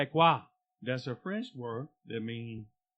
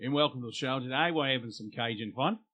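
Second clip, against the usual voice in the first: mock Australian; faster than usual. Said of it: "why are we doing Australian".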